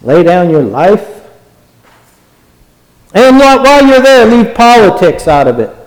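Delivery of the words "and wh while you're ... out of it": high, fast, sneering demand; high mocking imitation of a demanding member; mocking churchgoer. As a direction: mimic a prickly churchgoer laying down rules.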